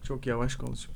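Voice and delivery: slow, dull imitation of bandmate; slow talking. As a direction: drag it out like a bored explainer. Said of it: "onun taklidini yaptık".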